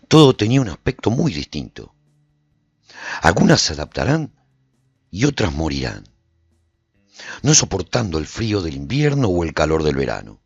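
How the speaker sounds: usual speaking voice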